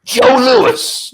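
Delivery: put-on very high, loud elderly cry; old man. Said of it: "And the old man looked up and he went".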